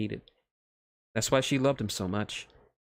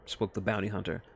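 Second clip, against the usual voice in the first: plain reading voice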